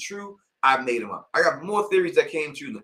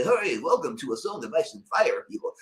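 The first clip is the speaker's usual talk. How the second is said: nasal-free put-on white guy voice, Eddie Murphy style; mock white YouTuber greeting his viewers; general white voice. Shown as a demonstration. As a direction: parody a bland white announcer. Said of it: "a general white voice that Eddie Murphy would use".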